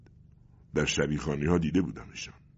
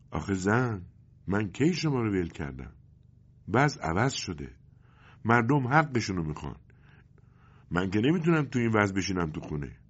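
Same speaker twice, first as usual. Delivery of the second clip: calm; 4 semitones higher than usual. Acted. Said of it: "پدر آرام گفت".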